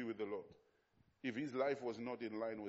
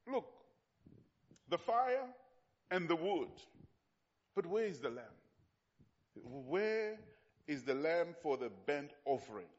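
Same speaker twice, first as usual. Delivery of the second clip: Isaac asking; 3 semitones higher than usual. Acted. Isaac asks his father.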